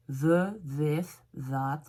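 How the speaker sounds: "The, this, that" each with a voiced th; tongue between teeth on "The, this, that"; English TH. Shown as a demonstration. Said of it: "on va coincer la langue entre les dents".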